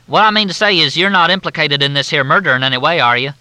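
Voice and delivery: high, loud, syrupy Southern drawl; Southern officer on the phone, in a thick drawl. Acted. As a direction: drawl it out like a courteous Southern major. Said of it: "The drawl was so steeped in courtesy".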